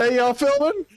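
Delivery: high put-on silly voice; high squeaky voice. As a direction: ask it in a squeaky cartoon voice. Mock voice asking about filming.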